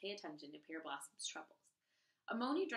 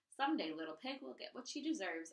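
threatening; 3 semitones higher than usual. Acted. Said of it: "Amoni threatened".

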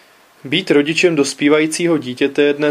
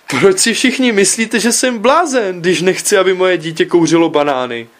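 high, raised cry of a father, slowing on "že jsem blázen"; exasperated outcry; 5 semitones higher than usual. Acted. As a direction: cry out as if everyone thinks you mad. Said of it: "vykřikl jsem". (zoufalý zvýšený výkřik otce)

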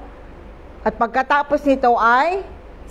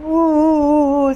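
child's mock wail; 4 semitones higher, 3 dB louder than usual. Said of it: "na umiiyak siya sa isang sulok".

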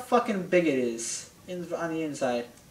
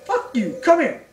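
mock gruff order; 6 semitones higher, 7 dB louder than usual. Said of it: "Link's like, uh".

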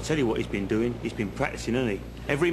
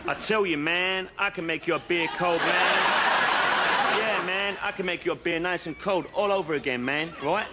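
bad Aussie accent; 2 semitones higher than usual. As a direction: have a rough go at Aussie. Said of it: "can't do the accent".

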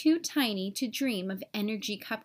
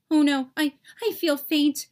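louder, hammed-up swooning panic; mock faint; 5 dB louder than usual. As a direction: play the fainting drama queen. Germ panicking at sink.

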